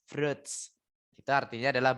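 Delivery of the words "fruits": "Fruits" softly as froots; soft one-syllable "Fruits"; correct pronunciation. Shown as a demonstration. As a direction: model "Fruits" with a silent i. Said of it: "tapi fruits".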